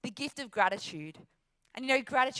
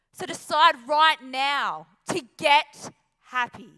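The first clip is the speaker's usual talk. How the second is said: louder and slow, a rousing final call; slow, loud rallying cry; 3 semitones higher, 10 dB louder, slower than usual. Acted. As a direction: drive the closing command home to the crowd. Climax of the motivational speech.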